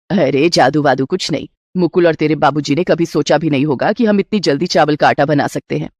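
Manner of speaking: a doting mother-in-law offering a gift. Acted.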